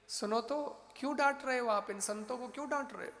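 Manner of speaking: wifely protest. Acted. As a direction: plead with him to stop scolding. Wife remonstrates with angry husband.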